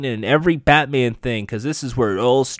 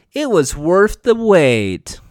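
high, slow mock-British villain line; attempted British accent; 6 semitones higher, 4 dB louder, slower than usual. Villain bringing the blade to Barbara, mock British accent. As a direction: relish it in a put-on British accent. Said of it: "Now I gotta try to a British accent".

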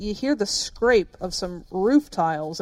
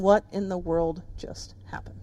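awed whisper; 4 semitones lower, 7 dB quieter than usual. Real, not acted. Awed crowd wondering.

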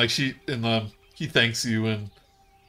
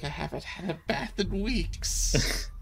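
character voice; 8 semitones higher, 6 dB quieter than usual. Acted.

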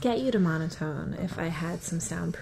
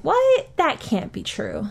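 shocked disbelief; 6 semitones higher, 4 dB louder, slower than usual. Retold or imitated. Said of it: "when people at work said it and I went".

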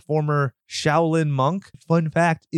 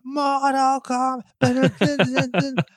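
laughing drawl; 11 semitones higher, much slower than usual. Acted. Drawn-out laughing repeat of name.

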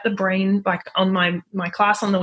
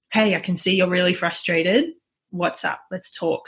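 calm tone of voice. Shown as a demonstration. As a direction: bring it down gently and invite the talk. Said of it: "having a calm tone of voice".

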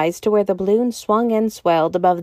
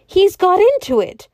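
shriek; 10 semitones higher, 6 dB louder than usual. A narrator's reading. Secretary shrieking at balloon.

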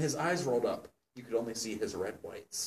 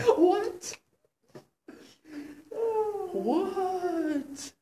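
high, loud disbelieving what; incredulous what; 5 dB louder than usual. Real, not acted. Reader stunned by the plot twist, high incredulous what.

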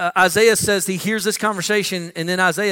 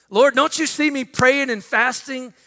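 higher-pitched mock pleading with God; acted insistent prayer; demanding prayer; 5 semitones higher than usual. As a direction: plead for answers from on high, pitch lifted. Acting a believer demanding God shout.

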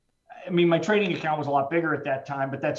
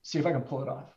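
voice breaking; 2 semitones higher than usual. Real, not acted. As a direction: push the words out through real grief. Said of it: "see, this is hard".

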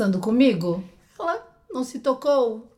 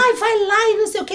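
mock whiny quote; 11 semitones higher, 6 dB louder, faster than usual. Mocking what everyone says.

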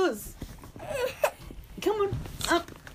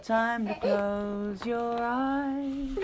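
tucking in at bedtime; 3 semitones higher, much slower than usual. Real, not acted. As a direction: coo her gently to sleep. Lulling the child to sleep.

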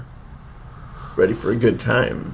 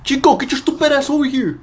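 calling the dog; 14 semitones higher than usual. Acted.

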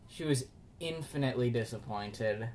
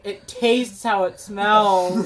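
laughing quote; 7 semitones higher, 11 dB louder, much slower than usual. Retold or imitated. Sister quoted mid-laugh.

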